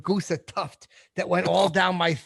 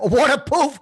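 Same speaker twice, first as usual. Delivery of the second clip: laughing mock; 8 semitones higher, 5 dB louder than usual. Real, not acted. Mocking co-host's flubbed word.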